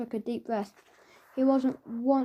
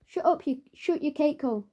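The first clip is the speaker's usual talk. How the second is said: snappish rudeness; 4 semitones higher than usual. Acted. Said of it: "snapped the girl".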